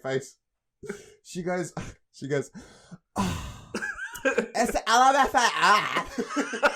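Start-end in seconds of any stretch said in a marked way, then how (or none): 3.2-6.7 high, very slow, drawn-out annoyed reply; mock the bored shop girl; annoyed clerk impression. Retelling the cashier's irritated answer, high, slow and drawn out. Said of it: "So annoyed".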